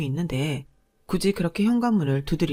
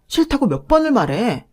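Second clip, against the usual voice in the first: loud and higher, fed up; a brother losing patience and shouting; exasperated yell; 4 semitones higher, 4 dB louder than usual. Acted. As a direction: shout it, you've said no too many times. Husband yells at his sister.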